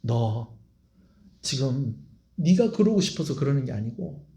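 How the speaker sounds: gentle, understanding voice to a friend; tender Jesus. Shown as a demonstration. Jesus warning Peter ahead of the night, gently tender. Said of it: "이래서 이렇게 얘기하신 게 아니고요".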